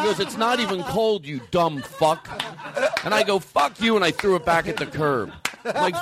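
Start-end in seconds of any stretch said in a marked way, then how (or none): 0.2-2.3 playfully aggressive complaint, drawn out at the end; mock aggressive. Audience member complaining about ice cream, mock aggressive. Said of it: "So you take it aggressively". 3.4-4.0 higher, playful curse; mock aggressive. Host to ice cream customer, mock aggressive. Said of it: "So you take it aggressively".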